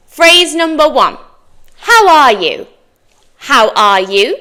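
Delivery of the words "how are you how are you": "How are you?" with every word separate and full; careful full form. Shown as a demonstration. Teacher models a phrase for English learners, careful full form. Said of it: "A native person might say".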